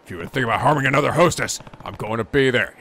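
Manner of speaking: stern low warning. Acted. Kiryu warns thug.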